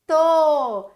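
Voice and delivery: To said loud and clear; emphatic syllable. Shown as a demonstration. Teacher calling out a syllable for the children. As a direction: punch out the syllable To. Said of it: "Como é que eu faço o to".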